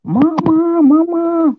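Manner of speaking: put-on high, drawn-out child's call; anak berteriak dari jauh. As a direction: call for Mama from far off, high and loud. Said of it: "itu teriak, Pak, dari jauh". (teriakan anak memanggil dari kejauhan)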